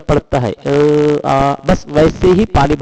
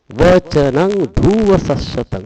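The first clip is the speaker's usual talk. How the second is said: slow, measured verse reading; Pali recitation; slower than usual. Shown as a demonstration. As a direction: intone each Pali word deliberately.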